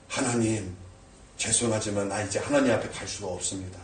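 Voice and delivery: low, hushed apology to God; subdued, defeated prayer; ashamed prayer. Acted. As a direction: confess softly, shrinking back. Acted ashamed prayer of withdrawal.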